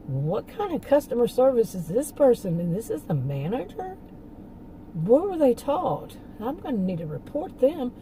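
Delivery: imitated customer in mild disbelief, pitch swinging up; mildly incredulous complaint; indignant customer. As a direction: act out an affronted shopper questioning the service. Acting out an affronted customer.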